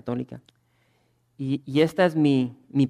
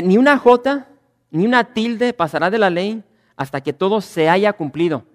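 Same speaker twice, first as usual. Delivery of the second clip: forceful scripture quote; 6 semitones higher, 8 dB louder than usual. Acted. Pastor reads Jesus's words to the church, booming proclamation. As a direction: ring out each word of the verse.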